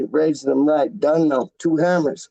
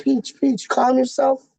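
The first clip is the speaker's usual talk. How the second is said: high, mock soothing voice for his friend; imitating Wally; 8 semitones higher than usual. Retelling how Wally calmed him, in a high mock voice. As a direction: play Wally calming him down, pitched way up. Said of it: "literally went like this".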